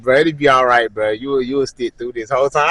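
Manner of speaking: understated retold pep talk; encouraging. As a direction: talk a buddy through it. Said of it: "he tryna encourage".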